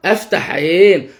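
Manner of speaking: أفتح عين said slowly with long vowels; drawn-out practice phrase; slow repetition. Shown as a demonstration. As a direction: repeat أفتح عين carefully, stretching it. Models child's repetition of phrase.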